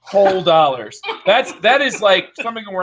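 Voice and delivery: big salesy emphasis; infomercial voice. Pretend. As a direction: oversell it like a TV ad. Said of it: "You got the infomercial voice on".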